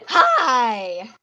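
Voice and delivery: loud retold jump-scare hi; startling boo. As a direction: yell hi to startle. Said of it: "I just leaned in like".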